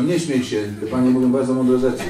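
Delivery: loud mock reprimand; hammed-up stern rebuke; mock scolding priest. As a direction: tell off the deacon in front of guests. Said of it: "Powiedział".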